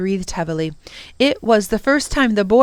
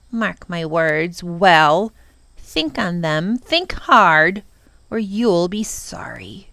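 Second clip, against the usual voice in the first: slow menacing threat; slower than usual. Acted. The Prock threatening the children as he leaves, slow and menacing. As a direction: lean on each word like a curse.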